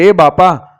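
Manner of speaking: terrified farmer crying out to the bandits, mild cry. Acted. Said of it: "બૂમ પાડી કે".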